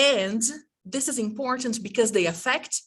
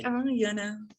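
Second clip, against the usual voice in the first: doubtful student; 6 dB quieter, faster than usual. Acted. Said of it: "But then you say".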